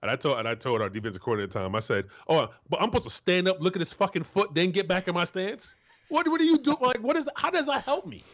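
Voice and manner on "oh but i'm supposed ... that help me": much higher, disbelieving complaint; incredulous protest. Retold or imitated. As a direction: object to the coach, voice climbing high. Retold protest to coordinator.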